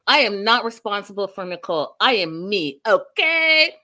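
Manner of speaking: mock defiant. Retelling a mother disowning responsibility for Nicole, mock defiant. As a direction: imitate someone indignantly refusing blame.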